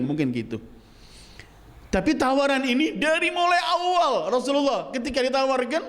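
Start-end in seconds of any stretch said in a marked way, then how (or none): 1.9-5.8 high, insistent sermon voice; impassioned preaching. Real, not acted. Preacher stressing the offer made to the Prophet, high insistent preaching. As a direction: press the point with pitch held high.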